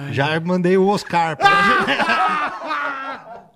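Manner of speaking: slow, through laughter; laughing. Real, not acted. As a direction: drag it out while laughing. Laughing while telling the story.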